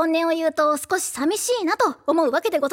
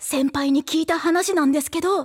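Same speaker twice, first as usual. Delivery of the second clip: hushed creepy ghost story; 3 semitones lower than usual. Shown as a demonstration. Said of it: "怖い口調がいいって。".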